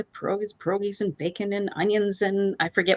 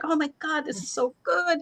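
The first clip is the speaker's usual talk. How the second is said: gushing hosts; 9 semitones higher than usual. Retold or imitated. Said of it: "They're like".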